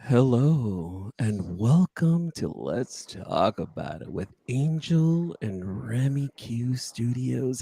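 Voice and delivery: sultry voice. Shown as a demonstration. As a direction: draw it out like a seduction. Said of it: "let me do the sultry version".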